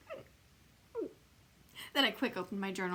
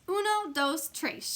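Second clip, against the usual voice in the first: counting loud; 7 semitones higher, 5 dB louder, slower than usual. Acted. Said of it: "she said real loud".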